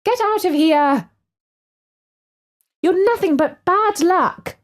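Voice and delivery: high drawn-out angry shout; shooing yell. Acted. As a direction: chase the cat off with a shrill yell. Mum shoos the black cat.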